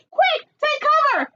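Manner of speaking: high urgent shout. Acted. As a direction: shout a warning. Turkey warns.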